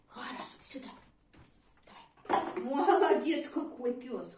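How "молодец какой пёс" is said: excited praise. Real, not acted. Praising dog after fetch.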